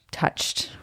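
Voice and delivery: breathy half-whisper trailing off. Retold or imitated. Mom quoting herself to the kids, fading to a whisper. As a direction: drop to a whisper on the last word. Mock complaint about kids touching.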